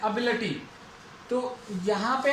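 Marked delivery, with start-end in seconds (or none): 0.0-0.7 एबिलिटी as uh-BIL-uh-tee; English-style एबिलिटी with weak uh before tee; falling model word एबिलिटी, uh at the start; correct pronunciation. Shown as a demonstration. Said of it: "ये इसका सही pronunciation है".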